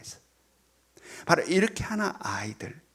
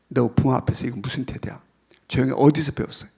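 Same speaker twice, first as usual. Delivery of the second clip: scolding parent; 4 semitones lower, 5 dB louder than usual. Retold or imitated. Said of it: "이렇게 난리치지 말라".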